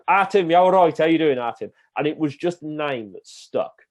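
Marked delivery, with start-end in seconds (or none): 0.1-1.7 higher and louder Black Country call-out; Black Country greeting. Retold or imitated. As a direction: hail Tim like a cheery local from the Black Country. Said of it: "And they'd always go".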